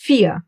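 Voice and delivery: vier, F at the start, no rolled R; German vier. Shown as a demonstration. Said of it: "Like here in this number".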